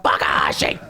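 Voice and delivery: hushed, breathy reveal of a name; whispered Takahashi; dramatic whisper. Retold or imitated. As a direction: whisper it like a secret. Liger unmasking moment.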